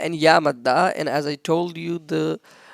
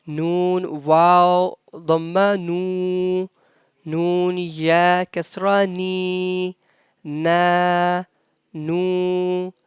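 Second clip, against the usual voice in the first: Arabic spelling drill; 3 dB louder than usual. Shown as a demonstration. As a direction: chant each syllable clearly like a teacher. Arabic letter-vowel recitation drill. (تلاوة تعليمية بطيئة للحروف)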